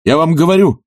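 fiery outburst to his mentor; passionate exclamation. A narrator's reading. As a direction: insist with burning conviction. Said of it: "страстно воскликнул Барменталь".

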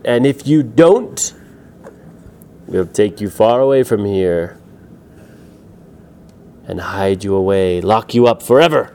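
villain laying down terms; menacing demand. Acted. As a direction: lean on each word as a warning. Rats threaten Pedro to get key.

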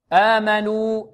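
آمنوا with a thin, light opening hamza and long vowels. Shown as a demonstration. Teacher modelling recitation, light hamza. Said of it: "آمنوا الهمزة مرققة".

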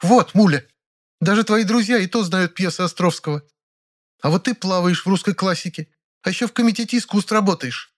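put-on high, scolding older actress voice; triumphant reproach; exclaiming Ranevskaya. A narrator's reading. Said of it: "сразу воскликнула". (высокий укоряющий голос Раневской)

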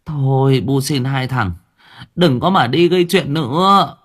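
high, rising plea from the mother; pleading mother. Acted. Mother begging her sons not to cause trouble, high plea.

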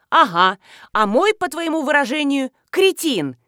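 loud venomous sneer, not a real hiss; hissed anger. A narrator's reading. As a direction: spit out the insult. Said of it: "зашипела Белкина". (злобно, с шипением)

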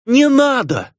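very high pleading shriek; piercing scream. A narrator's reading. Dona begs Sam not to drop it, high scream. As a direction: scream it to stop him. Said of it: "пронзительно закричала Дона".

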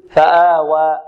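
فآوى with a straight open final "aa", untilted; without imalah. Shown as a demonstration. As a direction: hold the last alif of فآوى pure, not toward "ee". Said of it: "بدون إمالة". (فآوى بدون إمالة أو تقليل)

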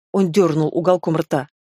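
ordinary delivery, nothing marked

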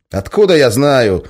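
loud, high irritable retort, a bit slow; snapping back. Acted. Guard snaps at the major, irritated. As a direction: snap it back. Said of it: "огрызнулся тот".

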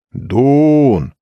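high call across the empty hall. Acted. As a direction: shout his name to find him. Searching crowd calls for Doon.

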